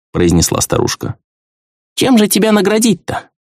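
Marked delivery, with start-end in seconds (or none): 1.9-3.3 much higher, fussing grandmotherly voice; a fond old hostess inviting a guest in; voiced high as a caring old woman; kindly old woman.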